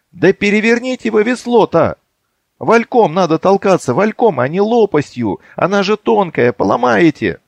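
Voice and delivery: angry shouting. Acted. Gunka scolding the men at the oars, angry. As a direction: yell at the clumsy rowers. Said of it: "раздался сердитый голос Гуньки".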